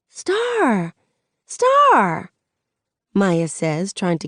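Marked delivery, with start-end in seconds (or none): 0.1-0.9 high call to get her eye. A narrator's reading. Maya calling to get attention. 1.4-2.3 higher, louder repeat of the name; urgent call. A narrator's reading. Maya calling again, more urgent.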